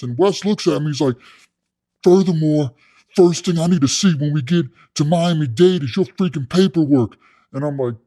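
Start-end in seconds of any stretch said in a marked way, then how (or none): 2.0-7.2 louder, higher imitation of a bossy inmate; demanding cellmate. Inmate demanding to see paperwork, bossy. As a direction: lay down the law as the inmate.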